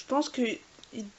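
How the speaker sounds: slow, drawn-out hesitation while remembering; hesitant, slowly recalling a name; thinking aloud. Real, not acted. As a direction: stretch the words as you search your memory. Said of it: "Je suis en train de réfléchir".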